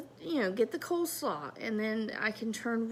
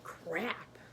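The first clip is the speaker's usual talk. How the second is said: whispered, lower, stunned; 5 semitones lower, 9 dB quieter than usual. Real, not acted. Reacting to the therapist's words, stunned whisper. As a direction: let it drop out as a breath. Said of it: "that hit hard".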